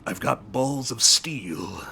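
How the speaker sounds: slow, breathy whispered growl of a tough guy; lightly mock a macho action hero; Duke Nukem impression. Streamer imitating Duke Nukem in a hushed tough-guy voice. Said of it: "who's saying things like".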